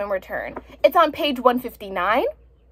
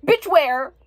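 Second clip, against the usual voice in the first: exasperated retort; 2 semitones higher than usual. Retold or imitated. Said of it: "I'm like".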